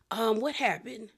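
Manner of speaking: soft, near-whispered aside; muttered to self. Real, not acted. Recapper asking herself what came next, muttered quietly. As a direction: think aloud under your breath. Asks herself while recalling the episode.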